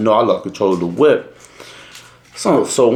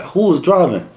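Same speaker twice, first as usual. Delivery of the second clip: lightly imitated stern officer, pitched up; raised, mildly stern questioning; stern trooper voice; 6 semitones higher than usual. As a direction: demand it like a trooper questioning a driver. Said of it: "like, a stern ass voice".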